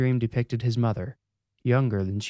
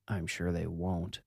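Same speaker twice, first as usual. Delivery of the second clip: mumbled to himself; 2 semitones lower, 7 dB quieter than usual. A narrator's reading. Joe mumbling to himself after the TV goes off, quietly. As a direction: mutter it to yourself, barely there. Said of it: "Joe mumbled to himself".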